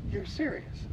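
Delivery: high-pitched retold disbelief; incredulous question. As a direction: lift the voice sharply, as if doubting it. Retold disbelief at comet news.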